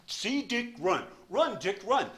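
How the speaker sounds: high, sing-song reading voice; reading like a primer. Retold or imitated. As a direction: read it like a children's primer. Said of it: "read me like a book".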